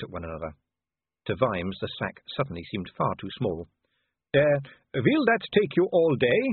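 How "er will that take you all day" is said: higher, slow ladylike voice; a lightly voiced genteel lady, dry; prim country lady. A narrator's reading. Lady in barn asks Vimes, higher and slow. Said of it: "said one of the women".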